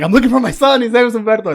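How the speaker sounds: hammed-up call from the doorway, pitch up; mock yelling. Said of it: "Like, yelling".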